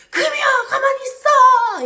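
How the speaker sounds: high, loud pleading cry; father frantically stopping his daughter; re-enacted anguished yell; desperate shout.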